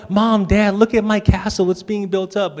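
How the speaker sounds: high imitation of a child showing off; excited girls. Dad imitating daughters showing their castle, high excited child voice. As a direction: call to parents like a proud little girl. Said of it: "they're like".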